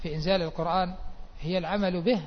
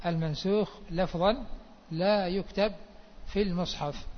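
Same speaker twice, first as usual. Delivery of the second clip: measured, phrase by phrase with pauses. Shown as a demonstration. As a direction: repeat it spaced out for note-takers. Teacher repeats rule slowly for students.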